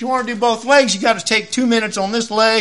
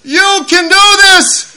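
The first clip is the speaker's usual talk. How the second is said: much higher, slow, encouraging; girl's voice; 10 semitones higher, 7 dB louder, slower than usual. Retold or imitated. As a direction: cheer him on like a young student. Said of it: "Abby looks over and goes".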